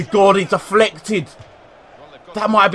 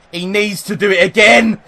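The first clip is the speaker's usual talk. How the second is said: raised voice, pushing the words out; 3 semitones higher than usual. Real, not acted. Willing free kick in.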